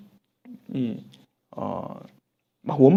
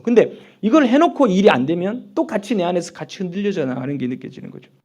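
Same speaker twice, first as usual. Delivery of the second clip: ordinary talk, nothing marked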